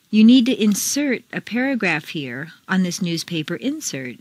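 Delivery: first "insert" as inSERT, last as INsert; contrasting word stress. Shown as a demonstration. Teacher reads exercise, contrasting inSERT with INsert. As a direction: stress inSERT for verb, INsert for noun. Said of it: "Mark the intonation".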